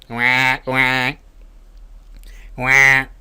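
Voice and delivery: guá repeated with nasal buzz; nasal guá sound. Shown as a demonstration. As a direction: say guá, guá, guá through the nose so it vibrates. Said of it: "haciendo este sonido".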